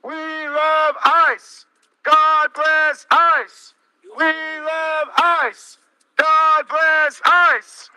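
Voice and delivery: frat bro. Acted. Mocking cheers through a megaphone.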